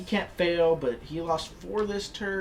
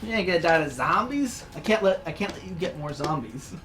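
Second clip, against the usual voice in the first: scout voice; 2 semitones higher, 5 dB louder than usual. Pretend. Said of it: "the scouts are like".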